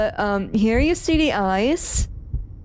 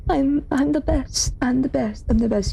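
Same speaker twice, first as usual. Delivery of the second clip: mock Monika; 4 semitones higher than usual. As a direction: tease her smug self-praise. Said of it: "being like".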